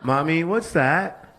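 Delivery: put-on high curious child voice; kid asking mommy. Child voice asking mommy at the runner. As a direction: pipe up like a small kid.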